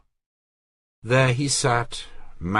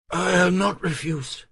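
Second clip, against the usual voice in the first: put-on a lightly raised, pleading young woman; Marguerite's voice; 10 semitones higher than usual. Marguerite protests to her cousin, lightly voiced distress.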